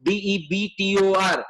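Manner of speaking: letter by letter, slow and separate; spelled out slowly. Shown as a demonstration. Teacher spells debtor for the class, slow letter-by-letter delivery.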